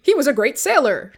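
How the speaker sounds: dry sarcastic praise. Retold or imitated. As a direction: say it with heavy irony.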